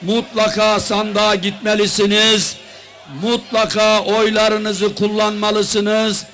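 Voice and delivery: loud, forceful campaign speech; rally speech. Real, not acted. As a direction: rouse the crowd from the podium. Opening of political rally speech.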